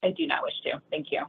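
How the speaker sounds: hoarse, near-voiceless whisper; raspy whisper. Real, not acted. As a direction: push the words out on breath, voice almost gone. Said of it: "I'm losing my voice".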